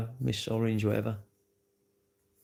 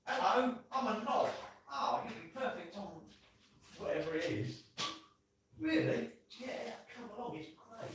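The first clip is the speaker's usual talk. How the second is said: mock dim voice; 8 semitones higher, 13 dB quieter than usual. Voices viewers, going quiet.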